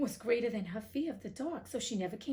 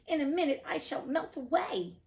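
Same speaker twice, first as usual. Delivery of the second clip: high, loud panicked cry; melting witch screaming in fear; 6 semitones higher, 4 dB louder than usual. Acted. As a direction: wail that the end is coming. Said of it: "she screamed".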